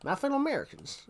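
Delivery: lightly voiced George Bush, high presidential opening; George Bush impression. Asked for impressions, he tries George Bush's address. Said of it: "George Bush was an interesting one to try".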